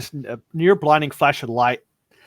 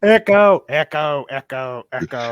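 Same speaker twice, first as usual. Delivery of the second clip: fading echo; 6 dB louder than usual. Pretend. Mimicking echo fading away.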